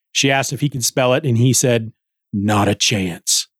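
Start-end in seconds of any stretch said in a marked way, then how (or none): 2.3-3.5 lower, slower mock refusal; the author's teasing refusal, low and slow. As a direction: drop low and slow to turn the request down. Author's retold answer to editor.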